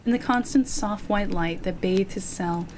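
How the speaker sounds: measured, articulate storytelling voice; steady narrator pacing with deliberate pauses; story narration. A narrator's reading. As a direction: read it like an atmospheric short story. Reads a short story aloud.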